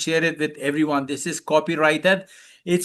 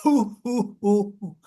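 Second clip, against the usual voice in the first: hooting laugh; hoo laugh; 2 semitones higher than usual. Shown as a demonstration. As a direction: demonstrate a belly hoo hoo laugh.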